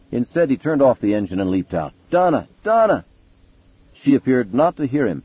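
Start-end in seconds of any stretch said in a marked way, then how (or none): 2.1-3.0 frantic calling out, rising high; shouting a name. Acted. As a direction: call her name in alarm. Husband calls out to his wife.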